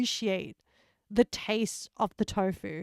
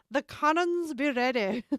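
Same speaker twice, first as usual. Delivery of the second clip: pirate accent slipping into Scottish, higher; amused, botched pirate accent; bad pirate accent; 4 semitones higher than usual. Shown as a demonstration. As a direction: attempt a pirate, come out Scottish. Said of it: "I'm not very good at accents".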